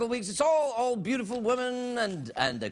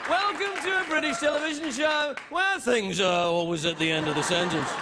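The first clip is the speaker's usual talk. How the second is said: English TV presenter; 4 semitones higher than usual. Acted. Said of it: "talk like an English television presenter".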